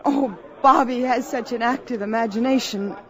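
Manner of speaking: talking through a light laugh. Acted. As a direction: laugh it off as nonsense. Laughing off Bobby's story.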